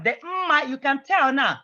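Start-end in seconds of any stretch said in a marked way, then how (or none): 0.2-0.7 "mma" with the first m hummed before "ma"; first M sounded. Shown as a demonstration. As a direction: make the double m in "mma" clearly audible. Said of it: "And then the first M".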